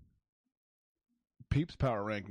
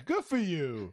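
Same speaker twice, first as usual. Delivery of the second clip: laughing; 6 semitones higher, 4 dB louder, slower than usual. Real, not acted. Laughing echo of friend's line.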